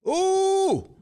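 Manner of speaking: playful oh-no-she-didn't; mock scandalized ooh. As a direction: gasp over the juicy list, half joking. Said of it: "I was like".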